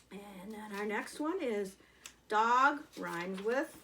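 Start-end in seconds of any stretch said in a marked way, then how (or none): 2.3-3.8 1 slow prompt. Shown as a demonstration. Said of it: "rhyming family".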